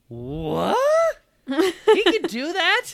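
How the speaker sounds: high, slow, wailing disbelief; half-crying in mock dismay. Retold shock at staff breaking.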